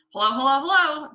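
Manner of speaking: high, loud parrot greeting; parrot calling out. A narrator's reading. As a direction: call down like a squawking bird. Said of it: "the bird called down to her".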